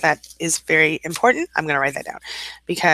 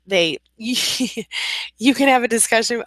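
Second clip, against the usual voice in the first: laughing exasperation; 7 semitones higher, much slower than usual. Real, not acted. Exasperated laugh about narcissists.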